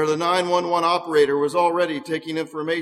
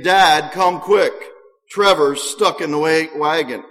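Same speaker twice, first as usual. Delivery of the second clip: loud, urgent call for help; 6 dB louder than usual. Acted. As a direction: burst in shouting for dad. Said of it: "burst into the room saying".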